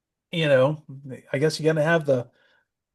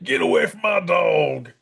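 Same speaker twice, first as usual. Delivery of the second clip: shout. Retold or imitated. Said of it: "He's like".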